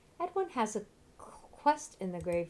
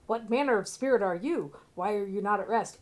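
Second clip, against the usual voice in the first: mock heroic dialogue; 5 dB louder than usual. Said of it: "What corny dialogue".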